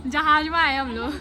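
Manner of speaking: high, loud, laughing excitement; excited about plane. Real, not acted. Family spotting a plane overhead, high laughing excitement. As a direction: point up at the plane, thrilled.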